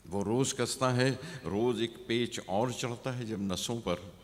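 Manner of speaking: rising repeats, dropping at the close; poem recitation. Acted. Poet voices a villager worn down by the city, measured recitation. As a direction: recite in lifted phrases, then let it sink.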